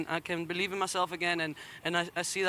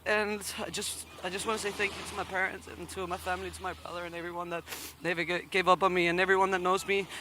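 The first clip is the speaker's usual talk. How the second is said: choked up. Real, not acted. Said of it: "I'm sorry that I couldn't talk as I normally do".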